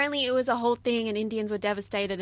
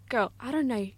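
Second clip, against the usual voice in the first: confiding whisper to a friend; whispered aside; 6 dB quieter than usual. Real, not acted. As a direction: drop to a secret whisper.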